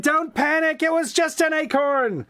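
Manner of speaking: a brisk little hen soothing a friend, voiced high; little red chicken.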